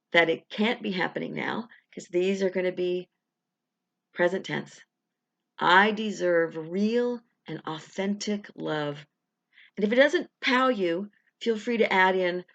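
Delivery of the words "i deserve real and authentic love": slow, deliberate affirmation read. Shown as a demonstration. Coach leading viewers through an affirmation, slow and deliberate. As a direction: savour each word of the affirmation. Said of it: "We'll say it three times".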